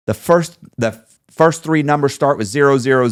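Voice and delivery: retold bank man losing it; mock yelling. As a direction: hammer out the numbers like an angry banker. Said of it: "he's screaming about this".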